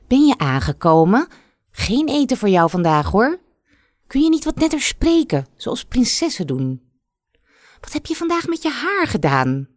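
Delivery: hoge, vitterige stem van een bazige moeder; strenge moeder. Acted. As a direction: kijf als een feeks van een koningin. Moeder kleineert de prinses. (een bazige moeder die haar dochter afkraakt, vitterig en hoog)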